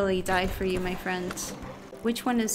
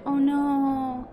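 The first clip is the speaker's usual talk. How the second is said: higher-pitched worried lament; dismayed; 5 semitones higher than usual. Real, not acted. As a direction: let sudden worry lift your voice. The speaker says she is tired.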